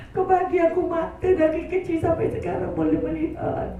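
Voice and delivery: earnest, softening plea of repentance; heartfelt prayer. Acted. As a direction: lead the crowd in a tearful confession.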